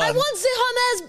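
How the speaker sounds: high, badly faked Italian accent; generic foreign accent. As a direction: attempt a sassy Italian accent. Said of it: "generic accent you use for anyone".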